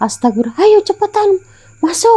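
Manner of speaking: very high, urgent, panicked voice.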